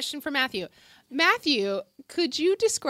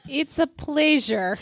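put-on slow, heavy Russian granny accent; Russian grandma voice; 3 semitones higher, slower than usual. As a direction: play a stern Russian grandma. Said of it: "Please answer using your Russian grandma voice".

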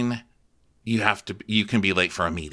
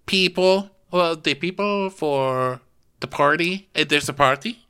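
condescending boss; 5 semitones higher than usual. Retold or imitated. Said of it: "And Jen says".

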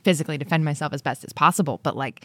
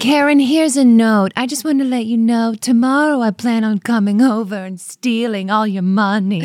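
overly polite; 4 semitones higher, 4 dB louder than usual. Pretend. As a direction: read a cheerful note to a victim. Burglar's polite warning note.

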